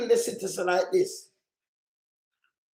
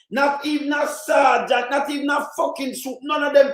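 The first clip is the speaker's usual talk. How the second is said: angry shout; 3 semitones higher than usual. Real, not acted. Ranting against PM's order.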